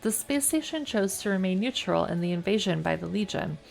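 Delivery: reading game text aloud, evenly; story narration. A narrator's reading. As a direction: narrate the scene like an audiobook.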